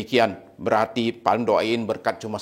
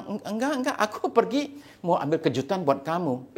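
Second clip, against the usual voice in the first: high, softer stammered denial; nervous husband; 5 semitones higher, 4 dB quieter than usual. Acted. Husband confronted by his wife, nervously denying. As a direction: stammer a meek excuse, voice pitched up. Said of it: "suaminya bilang".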